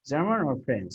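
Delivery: German rises, French falls off at the end; choice question intonation. Shown as a demonstration. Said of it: "you are raising your voice".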